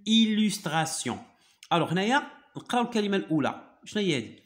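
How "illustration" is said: French words drawn out syllable by syllable; slow teacher's model. Shown as a demonstration. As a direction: model the phrase very slowly for a learner. Teacher repeats French terms slowly.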